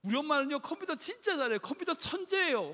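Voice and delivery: put-on boasting child. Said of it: "막 자랑을 하는데". (엄마 자랑하는 아이를 살짝 흉내 낸 높은 목소리)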